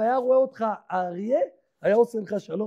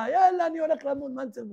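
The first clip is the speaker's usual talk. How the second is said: mock teenager; 5 semitones higher, faster than usual. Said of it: "ילד היום בן חמש עשרה יגיד לך".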